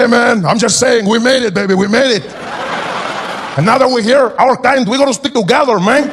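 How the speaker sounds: a stranger claiming kinship; Latino man. Retold or imitated. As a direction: warm Latino buddy. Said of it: "He said".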